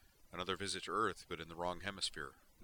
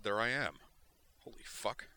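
stunned realization, louder; shocked; 5 semitones higher, 4 dB louder than usual. A narrator's reading. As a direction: gasp at seeing yourself. Shock at seeing himself.

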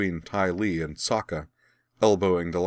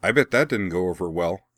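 cheerfully; 4 dB louder than usual. Acted. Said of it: "said Sokka cheerfully".

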